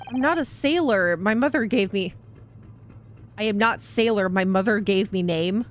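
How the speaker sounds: gruff sailor with a put-on Russian accent. Stroganov correcting the lawyer, in a Russian accent. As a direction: play the stubborn Russian crewman. Stroganov's lines, game read aloud.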